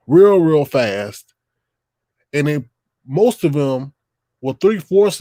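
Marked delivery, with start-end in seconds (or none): 0.1-1.3 drawn out slow and louder; slow emphatic. Real, not acted. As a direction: stretch each word to hammer it home. Emphasising how fast kids grow.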